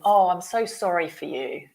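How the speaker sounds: mock gushing sympathy, lightly done; a touch of emotional commiseration. Shown as a demonstration. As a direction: act out an over-emotional apology. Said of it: "in an emotional way".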